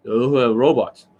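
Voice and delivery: a hint of a slow, droning robot; mock robot. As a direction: lightly mimic stiff robotic coaches, slowly. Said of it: "They can't change their tonality".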